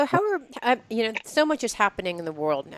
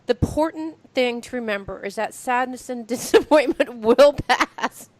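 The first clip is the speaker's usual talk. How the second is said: mock pixie recital; 3 semitones higher than usual. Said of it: "And you can say".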